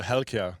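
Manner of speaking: "Helkia" with stress up front, falling at the end; name pronunciation. Shown as a demonstration. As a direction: say "Helkia" as HEL-kee-uh. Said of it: "how do you pronounce your last name".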